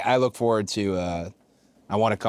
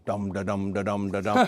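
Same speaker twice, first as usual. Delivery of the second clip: bouncing mouthed drum beat; imitated drum roll. Wrestler mimicking a bouncing run to the ring, mouthed drum roll. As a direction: drum out the syllables in time. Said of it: "I'm making the sound".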